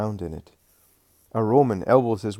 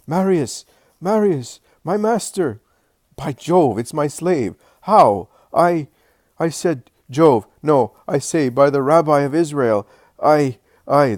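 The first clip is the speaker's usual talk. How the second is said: put-on shouting old slave; 6 semitones higher, 9 dB louder than usual. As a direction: shout the master's name much higher and louder, overjoyed and flustered.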